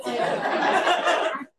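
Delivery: flat robotic monotone, no feeling. Retold or imitated. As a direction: recite it robotically, deadpan. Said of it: "And I did it robotically".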